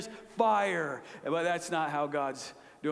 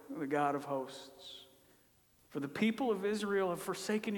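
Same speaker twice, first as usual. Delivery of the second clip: self-pitying lament; 3 semitones lower, 3 dB quieter than usual. Retold or imitated. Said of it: "he has a different tone".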